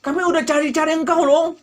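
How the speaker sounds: lightly voiced eager crowd calling to Jesus. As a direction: play the crowd fishing for praise. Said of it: "gitu ya".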